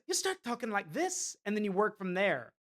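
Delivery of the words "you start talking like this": lilting Welsh demo, pitched slightly up; light attempt at Welsh; Welsh accent. Shown as a demonstration. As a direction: show how a Welsh accent starts. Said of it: "if you wanna talk Welsh".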